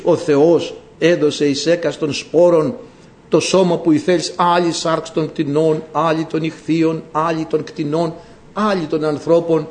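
measured, even-pitched recitation; scripture reading. Real, not acted. Preacher quoting Corinthians to the congregation, measured scripture reading. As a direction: read out the verse in steady, separated phrases.

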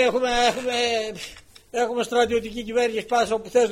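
loud, high dismissive scold; scolding shout. Retold or imitated. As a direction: wave him off with a loud scold. Official scolds the speaker.

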